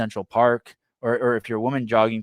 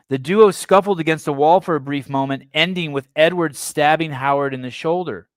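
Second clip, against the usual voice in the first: emphatic reading aloud from a report; article read-aloud; 5 semitones higher, 5 dB louder than usual. Real, not acted. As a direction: read out the report, starting high and loud.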